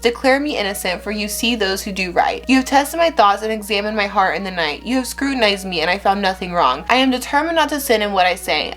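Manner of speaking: steady, earnest reading of a psalm; scripture reading. Acted. Vlogger reading Psalm seventeen to viewers, earnest reverent reading.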